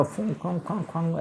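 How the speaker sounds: soft imitated blubbering sobs; quiet mock-crying snuffles; mock sobbing. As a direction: mimic a grown man crying like a child. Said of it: "ऐसे रोने लगे".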